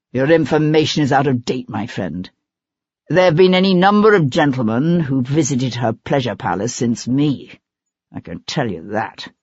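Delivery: lightly voiced bitter actor, sneering at the end; a hint of a jilted lover, crude and dismissive; scornful actor. Gordon's held voice.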